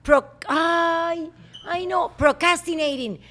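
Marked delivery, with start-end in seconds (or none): 2.2-3.2 "Procrastinating" said carefully, each syllable distinct; deliberate corrected take of "Procrastinating"; careful pronunciation model. Shown as a demonstration. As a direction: model "Procrastinating" with the stress on CAS. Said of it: "you are not pronouncing it the correct way".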